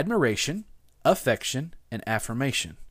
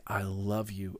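heartfelt; 5 semitones lower, 8 dB quieter, slower than usual. Shown as a demonstration. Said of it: "and we just feel it".

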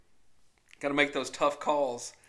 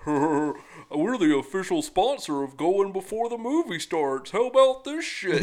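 mock cartoon bear mascot; 4 dB louder, slower than usual. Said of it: "He's like".

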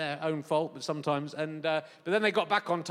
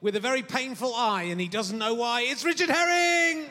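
mock theatre announcer; 5 semitones higher than usual. Mocking the venue announcer, a light pompous announcer voice. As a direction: ham up the house announcer's welcome. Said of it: "I don't know why they keep on employing that guy".

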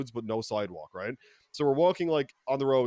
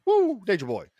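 higher, louder hammed-up woo; wrestler catchphrase; 8 semitones higher, 6 dB louder than usual. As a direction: belt it like a wrestling promo. Ric Flair catchphrase after woo.

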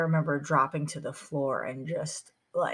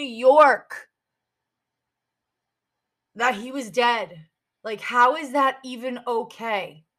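higher and louder, voice rising in outrage; angry outburst; 6 semitones higher, 6 dB louder than usual. Real, not acted. Telling how his mother learned of the death, real angry outrage. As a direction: let the anger at the police spill over.

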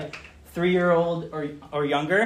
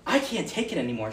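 put-on overwhelmed little girl; 3 semitones lower, 7 dB quieter, faster than usual. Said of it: "she's overwhelmed".

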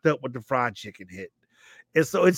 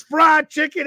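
loud high crowd yell; congregation yelling; 9 semitones higher, 6 dB louder than usual. Retold or imitated. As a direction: shout it like a whole church answering at once. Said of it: "the whole congregation just yells".

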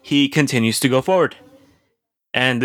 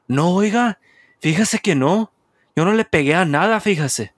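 higher, fast indignant denial; mock denying driver; 6 semitones higher than usual. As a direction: play the driver protesting innocence, quick and high. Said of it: "Y dijo".

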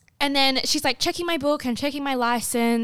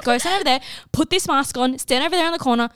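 acted insistent instructions, a bit louder and higher; mock bossy order; 3 semitones higher, 5 dB louder than usual. Old lady tester sends nervous teen to the corner, mock bossy. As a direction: order them off, mildly hammed-up.

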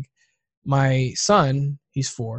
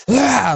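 brief imitated outburst, pitched up; mock freak-out yell; 9 semitones higher, 5 dB louder than usual. Showing how they would lose it, mock freak-out yell. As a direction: let out a quick mock "ah".

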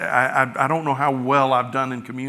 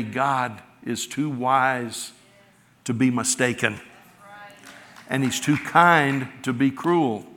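preaching; slower than usual. Acted. Congregation's creed quoted.

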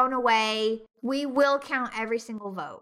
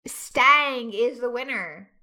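announcer voice; 5 dB louder, slower than usual. Acted. Announcing the winner.

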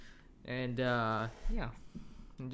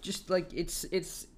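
after laughing hard; 4 semitones higher than usual. Real, not acted. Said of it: "I can't even speak".

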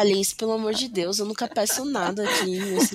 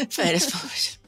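whispered. Real, not acted. Joking about needing vacation.

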